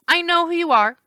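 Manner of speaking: high, loud accusing; defiant river spirit; angry naiad. A narrator's reading. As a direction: put him in his place. Angry naiad confronts Percy.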